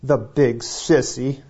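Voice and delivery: mock trembling, slow and laughing; shaky little voice, half laughing; quaky voice. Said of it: "in a quaky voice".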